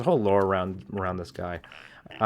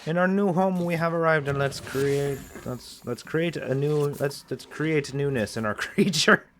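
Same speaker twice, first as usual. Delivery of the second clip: higher, slow, hammed-up proclamation; put-on grand voice; 4 semitones higher than usual. Gamer announcing arrival at the new home, higher and slow. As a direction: announce arrival like a pompous herald. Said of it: "gonna stop talking like that".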